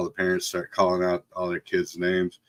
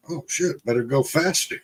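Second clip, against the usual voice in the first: higher-pitched mock "uh-oh" from the uncle; imitated mild alarm; 4 semitones higher than usual. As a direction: retell his sudden realization, lightly. Quoting uncle reacting to wagon.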